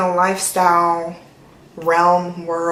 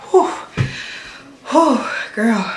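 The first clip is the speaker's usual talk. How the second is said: panting whew after dancing; breathless whew; 2 semitones higher, slower than usual. Real, not acted. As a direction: blow out a tired breath. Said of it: "I'm out of breath from dancing".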